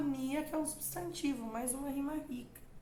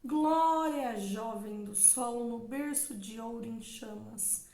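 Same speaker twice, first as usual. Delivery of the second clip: measured reading of a sonnet line, flowing naturally; poem recitation; 3 dB louder than usual. Shown as a demonstration. Teacher reading the sonnet's opening line to the class, recited. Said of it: "observa também a metrificação dos versos".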